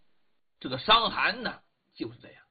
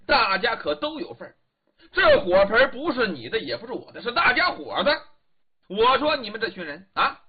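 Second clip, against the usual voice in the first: indignant scolding. Acted. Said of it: "嗓门挺高，在那里嚷人呢".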